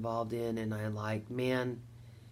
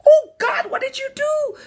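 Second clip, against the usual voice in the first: high, loud, strained cry of dismay; mock panic after pressing the button; retold horror; 13 dB louder than usual. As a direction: wail it like instant regret. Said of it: "I went".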